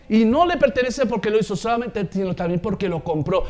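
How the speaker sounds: normal talking voice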